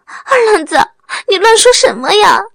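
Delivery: furious high-pitched rebuke of her foolish husband; angry wife. A narrator's reading. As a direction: shout at him in exasperation, stamping her foot. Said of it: "王梅气得跺脚".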